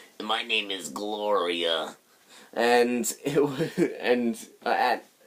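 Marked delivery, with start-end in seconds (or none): 0.2-2.0 acted rough, gravelly voice. Showing the voice used for the character Gloria, raspy Gloria voice. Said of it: "very raspy voice".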